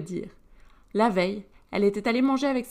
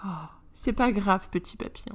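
consolation douce. Acted. Consoler Alistair.

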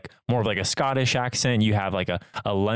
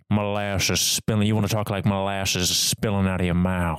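put-on Southern accent. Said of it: "I kinda like a Southern accent".

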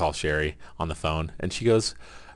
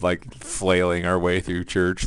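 mock shout; slower than usual. Mimes flailing while drowning.

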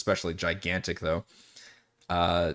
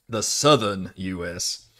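slow Southern drawl; Southern US accent; 3 dB louder, slower than usual. Shown as a demonstration. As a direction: lightly put on a drawn-out Southern accent. Contrasts own accent with Southern one.

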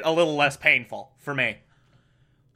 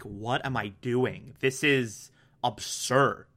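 hushed doubt; 5 semitones lower, 7 dB quieter than usual. Retold or imitated. Zhao hesitating, embraces sanity.

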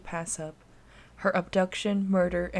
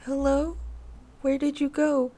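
put-on panicked child; 7 semitones higher than usual. A narrator's reading. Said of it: "Anna began to panic".

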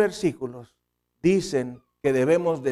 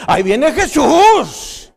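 put-on higher, louder, slow child's cry; a kid announcing doom with relish; child's warning; 9 semitones higher, 10 dB louder, much slower than usual. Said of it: "Tita, te vas a ir al infierno".

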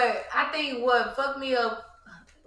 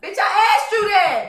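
retold exasperated; 8 semitones higher, 6 dB louder, slower than usual. Retold frustrated argument.

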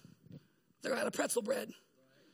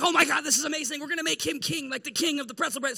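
excited crowd; 4 dB louder than usual. Retold or imitated. Crowd excited over bread.

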